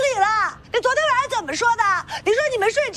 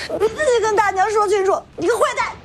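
tearful, bitter blame; crying reproach; faster than usual. Acted. The girl turns on the man through tears, crying. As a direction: accuse him while sobbing.

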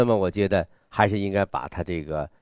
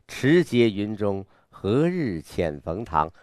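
slow, inward recitation at normal volume; 内在的朗诵; slower than usual. Shown as a demonstration. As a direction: recite slowly, holding the resolve inside. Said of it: "稍微内在一点儿". (内敛、缓慢地朗诵)

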